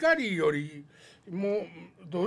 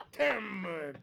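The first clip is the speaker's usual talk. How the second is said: building to a shout; 6 semitones higher, much slower than usual. Retold or imitated. Repeating sound word, getting louder.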